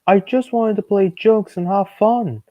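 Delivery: high, loud, hammed-up apology; sorry little engine. Kid voicing Thomas apologising, high and hammed-up. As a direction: plead like a guilty young engine. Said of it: "wheezed Thomas sadly".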